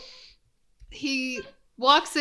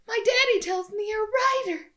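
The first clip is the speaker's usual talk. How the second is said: man doing a woman's voice; 10 semitones higher, faster than usual. Retold or imitated. Voicing the young woman.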